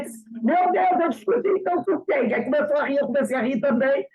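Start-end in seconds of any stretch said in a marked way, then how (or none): 0.3-2.3 high, louder, baffled cry of surprise; the young man can't believe it; astonished. Retold or imitated. Young neighbor to her in the elevator, astonished.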